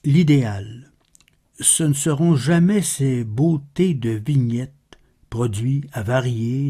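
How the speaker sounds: measured, solemn verse reading with pauses; poem recitation. Acted. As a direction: recite the verse evenly, pausing between phrases. Recites a poem after spoken introduction.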